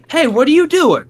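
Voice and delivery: high, lightly voiced nosy lady; suspicious neighbor lady. Lady mowing her lawn calls out to him, nosy. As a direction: mimic her prying call. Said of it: "she goes".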